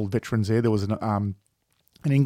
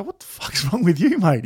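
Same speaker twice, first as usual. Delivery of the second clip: laughing disbelief; 7 semitones higher than usual. Retold or imitated. Mate caught crying at cemetery.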